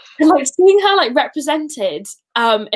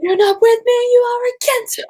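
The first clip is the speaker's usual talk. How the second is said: higher, louder hammed-up movie line; dramatic Anakin quote; 12 semitones higher, 4 dB louder than usual. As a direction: throw the line like an angry Jedi. Quoting the Mustafar conversation.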